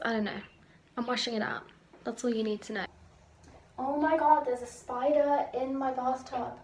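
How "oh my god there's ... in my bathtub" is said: startled loud cry at a spider; loud alarmed yelp at a spider; screaming at a spider. Real, not acted. Spider in the bathtub.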